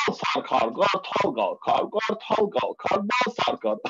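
slow, rhythmic chant of the rhyme; tongue twister demo. Shown as a demonstration. Teaching a friend a tongue twister, slow rhythmic chant. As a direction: teach it word by word, steady beat. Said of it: "Ben sana şunu öğreteyim".

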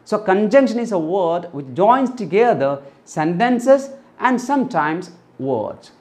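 very slow definition, word by word; teacher dictating a definition slowly; slow dictation. Shown as a demonstration. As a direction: read the rule out slowly for students. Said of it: "slow definition read out".

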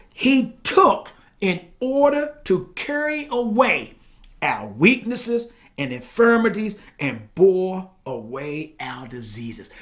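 deliberate pulpit reading; emphatic scripture reading. Real, not acted. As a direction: stretch the verse out phrase by phrase. Reads scripture aloud.

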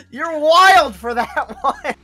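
loud, slow hyped bro call; frat bro. Real, not acted. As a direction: drag it out hyped. Reacting to a joke.

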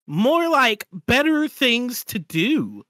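slow robotic voice; text-to-speech voice. Acted. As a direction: read like a computer, slowly. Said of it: "Two text-to-speech voices read out".

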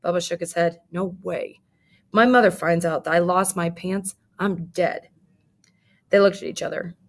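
lively read-aloud storytelling; story narration. A narrator's reading. Teacher reading a picture book to her class, lively.

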